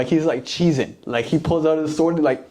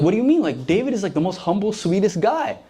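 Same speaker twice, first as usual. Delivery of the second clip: higher-pitched, puzzled defence of a friend; baffled protest; 6 semitones higher than usual. Retold or imitated. Priest defending David to Saul, baffled protest. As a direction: act out a bewildered priest protesting.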